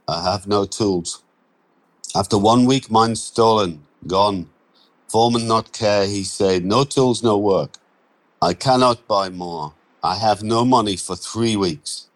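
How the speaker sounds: put-on broken English in a Romanian accent, a touch indignant. Andrei explaining to Mitch why he can't work, Romanian accent. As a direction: Romanian accent, quoting the foreman bluntly.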